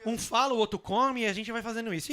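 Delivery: talking with mouth full; chewing while talking; messy loud eating. Real, not acted. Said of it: "se fala de boca cheia".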